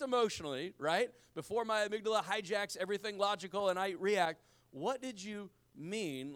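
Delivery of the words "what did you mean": calm question. Shown as a demonstration. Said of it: "this is the diplomatic off-ramp before the war starts".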